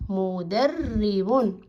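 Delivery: مدرب read very slowly as mudarribun; slow drawn-out word. Shown as a demonstration. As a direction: stretch مدرب out for the children. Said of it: "تعطينا كلمة مدرب".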